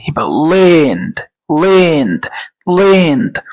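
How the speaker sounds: slowly drilled land. Shown as a demonstration. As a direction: land said slowly with a short e-like vowel. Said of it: "الصوت التاني أو النطق التاني".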